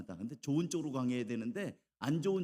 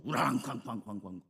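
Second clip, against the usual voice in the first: rumbling thunder sound effect; imitated thunder. Preacher mimics noisy thunder for the congregation, booming imitation. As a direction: boom it out like rolling thunder. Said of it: "그리고 시끄러워요".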